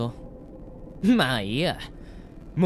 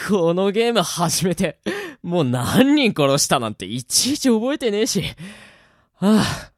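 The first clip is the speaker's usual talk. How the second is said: gloating laugh; 5 semitones higher, 5 dB louder than usual. Acted. Killer boasts after laughing.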